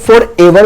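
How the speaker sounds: "forever" said as two pieces, for + ever; mistaken pronunciation. Shown as a demonstration. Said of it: "जो कि गलत है". ("forever" का गलत उच्चारण, तोड़कर)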